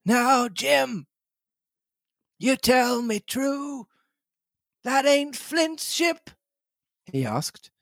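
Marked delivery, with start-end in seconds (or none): 0.0-6.3 put-on high, slow, warning old castaway; threatening Ben Gunn. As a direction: press the boy for the truth, menacingly. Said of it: "raised a forefinger threateningly".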